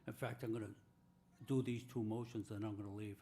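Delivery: tired, unwell voice; weak after surgery. Real, not acted. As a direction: speak like you just had surgery. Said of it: "and I'm not feeling well".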